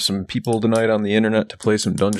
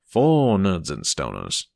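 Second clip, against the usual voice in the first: slow low drop; 4 semitones lower, slower than usual. Pretend. Host finishing the tagline, sinking low and slow. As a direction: drop lower and slow right down on "for Nerds and Stoners.". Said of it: "I'm not even fucking sure what accent this is".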